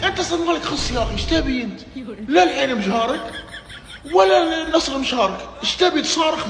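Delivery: high-pitched angry yelling; heated shout. Real, not acted. Yelling at a rival fan to shut up, furious. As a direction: shout him down, exasperated.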